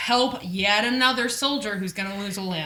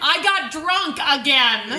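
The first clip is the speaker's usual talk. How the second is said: laughing confession; 5 semitones higher, 5 dB louder, slower than usual. Retold or imitated. Voicing Claire, laughing.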